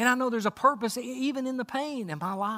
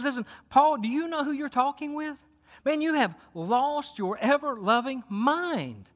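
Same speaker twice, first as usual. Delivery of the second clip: mild, higher-pitched retold outburst; mock yell; 4 semitones higher than usual. Preacher retells Festus yelling at Paul, mildly raised voice. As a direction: imitate an indignant yell without full volume. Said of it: "Festus yells out and he says".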